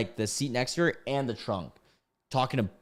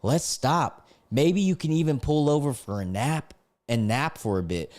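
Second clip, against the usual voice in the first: lightly lilting, higher imitation; sing-song voice; 4 semitones higher than usual. Passenger coaxing the driver to nap, in a light sing-song imitation. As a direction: coax with a mild sing-song lilt. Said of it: "in her sing-song voice".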